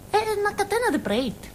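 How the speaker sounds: fast, high, laughing through the words. Acted. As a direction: giggle out the punchline. Laughs at her own joke. (detto ridendo, veloce e acuto)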